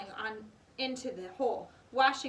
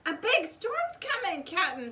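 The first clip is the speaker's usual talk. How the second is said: worried warning; 8 semitones higher, 6 dB louder than usual. A narrator's reading. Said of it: "said Pinky".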